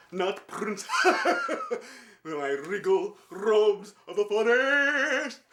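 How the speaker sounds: slow, hammed-up regal lion. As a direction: drag it out like a pompous stage lion. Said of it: "I'm the lion".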